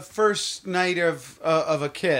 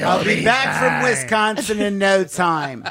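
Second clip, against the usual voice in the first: put-on Wisconsin accent. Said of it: "Give me another direction".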